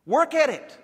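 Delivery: loud, high, punched preaching command; forceful exhortation. Real, not acted. Preacher urging his church to act, loud exhortation. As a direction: drive it home to the congregation.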